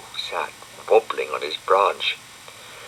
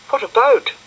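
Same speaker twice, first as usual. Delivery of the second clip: high bright question; high girlish curious question; Florence asking; 6 dB louder than usual. A narrator's reading. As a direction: ask it high and eager.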